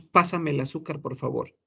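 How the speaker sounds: "el azúcar" glided together, sounding like "elazúcar"; linked "el azúcar". Shown as a demonstration. Teacher modelling how people actually say it. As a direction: let "el" slide right into "azúcar". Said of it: "porque decimos".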